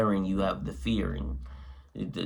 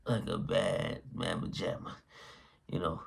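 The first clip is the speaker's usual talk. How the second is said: talking through hiccups; 3 semitones lower, 7 dB quieter than usual. Real, not acted. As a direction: speak with hiccups breaking in. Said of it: "I got the hiccups".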